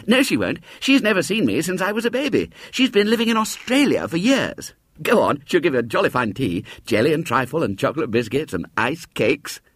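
put-on high insistent boyish voice; persuading boy. Boy reassuring William, high and insistent. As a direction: brush the doubt aside.

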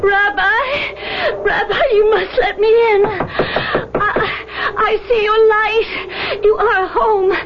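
tearful, desperate pleading at a door; anxious hope. Acted. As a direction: beg to be let in, voice near tears. Ghost begging at rabbi's door.

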